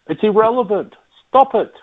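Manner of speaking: rising, pleading "stop it"; fed up, begging them to stop; exasperated outburst. Real, not acted. Ranting about default sort.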